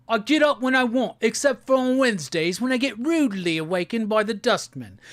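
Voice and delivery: a light, quick mock British accent like a well-known Britpop song. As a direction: rattle it off in a hammed-up British accent. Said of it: "My, uh, British accent is always the guy from that Britpop song".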